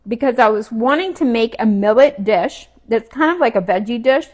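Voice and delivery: talking while chewing food. Real, not acted. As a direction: say it through a mouthful. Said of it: "Sorry, I'm chewing".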